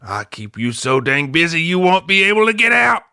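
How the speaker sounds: high country holler, rising and building; mock boyish backwoods scolding; Travis. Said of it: "Travis calls Yeller in and says".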